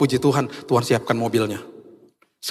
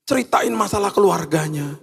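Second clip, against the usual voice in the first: usual speaking voice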